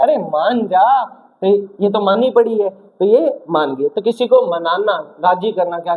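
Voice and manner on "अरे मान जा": slow, drawn-out mock plea; playfully acted cajoling; coaxing. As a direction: stretch it out to win someone over. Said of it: "जैसे ये मना रहा है".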